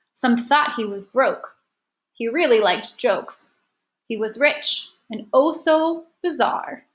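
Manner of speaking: slow, measured limerick read; unhurried teacher reading a poem. Shown as a demonstration. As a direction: read the verse line by line, pausing after each. Reads an example limerick aloud.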